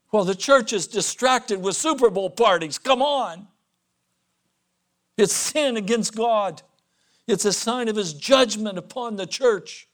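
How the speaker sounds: loud, high, driving sermon voice; fiery preaching. Acted. Preacher warning the church about Super Bowl parties, loud and fiery. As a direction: preach it hard at the congregation.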